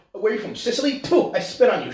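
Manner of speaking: a hint of snooty nonna contempt; mock Italian-American women. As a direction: imitate a feuding Italian grandmother. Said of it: "doing what typical Italian women".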